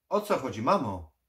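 loud, high cry to mother; shouted question. A narrator's reading. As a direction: shout after her, demanding an answer. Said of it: "Krzyknął".

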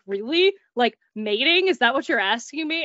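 amused disbelief. Retold or imitated. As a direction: tease him about his word choice. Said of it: "I laughed at him because of his choice of words".

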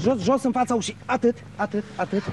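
low, hushed instructions; careful guiding. Acted. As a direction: guide them softly, word by word. Soldier guides people carefully past danger.

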